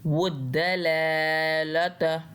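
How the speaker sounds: वुद्दलालता with one लाम drawn long and the other heavy; one lam long, one heavy. Shown as a demonstration. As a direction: slowly recite वुद्दलालता, stretching one लाम. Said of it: "एक को हमने मोटा पढ़ना है". (वुद्दलालता में एक लाम लंबा, एक मोटा)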